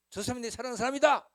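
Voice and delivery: ringing drama-hero cry; impassioned shout. Retold or imitated. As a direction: shout your love to everyone. Replaying the drama love declaration.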